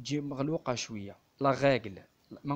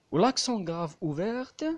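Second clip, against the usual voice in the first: emphatic demo; 6 semitones higher, 5 dB louder, much slower than usual. Shown as a demonstration. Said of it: "تجي شوية خشينة يعني في النطق".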